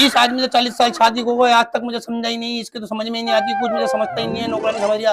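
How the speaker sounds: lightly mocked wifely grumble; imitating complaining mother. Mother running down father to her sister, mock grumbling. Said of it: "अब्बा की बुराइयां".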